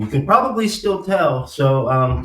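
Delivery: speaking with cotton in mouth after dental surgery. Real, not acted. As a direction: talk around gauze in the mouth. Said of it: "I'm speaking a little bit funny".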